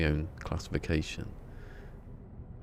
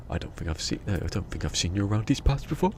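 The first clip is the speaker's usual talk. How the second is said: a light Southern American line rising at the end; mock Southern stranger greeting; Southern American accent; 3 semitones higher than usual. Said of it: "like that".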